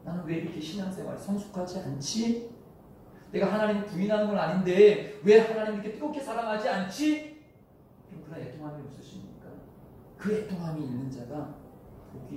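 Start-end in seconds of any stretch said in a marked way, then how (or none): 0.0-7.4 lament. Acted. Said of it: "애통해야 돼".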